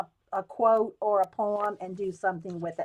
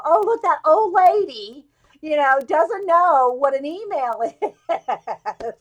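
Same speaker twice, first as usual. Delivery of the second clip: a hint of giggling mockery, slow; mocking kids giggling; 4 semitones higher, 6 dB louder, slower than usual. Young students mocking the older classmate, lightly giggling. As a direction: snicker lightly at the old lady. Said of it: "they're going, laughing with their hand over".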